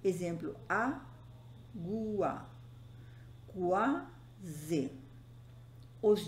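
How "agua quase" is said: "agua" and "quase" with a gap between syllables. Shown as a demonstration. Teacher showing digraphs kept in one syllable, split syllable by syllable. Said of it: "a uma única sílaba".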